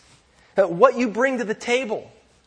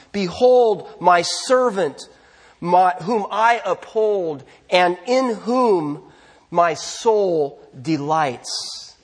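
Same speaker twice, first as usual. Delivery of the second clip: slow, measured prophetic declaration; God; slower than usual. Retold or imitated. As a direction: lightly voice a divine proclamation, drawing out each phrase. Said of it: "God says about the suffering servant".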